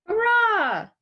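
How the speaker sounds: high, loud joyful cheer; a burst of delight at the pudding; excited cheer. Acted.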